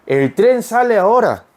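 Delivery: very slow, word by word; slow reading. Shown as a demonstration. Teacher reading an example sentence slowly. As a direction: read it slowly for learners. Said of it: "example sentence read slowly".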